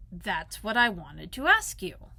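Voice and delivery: emphatic. Acted. Pooh finally gets request out.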